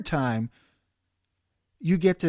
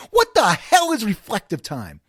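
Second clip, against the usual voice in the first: outraged shout; 4 semitones higher, 5 dB louder than usual. Real, not acted.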